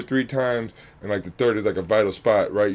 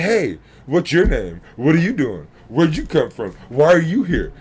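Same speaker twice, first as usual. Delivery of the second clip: louder, eager questions to a newcomer; friendly welcome; 4 semitones higher, 5 dB louder than usual. Retold or imitated. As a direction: greet a stranger like a new friend. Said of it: "We're like".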